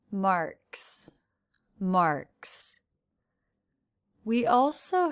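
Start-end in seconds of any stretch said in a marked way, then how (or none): 0.1-2.8 "marks" ending in a voiceless ks; unvoiced ending. Shown as a demonstration. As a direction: end "marks" on a crisp hissed ks. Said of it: "apostrophe S is also unvoiced".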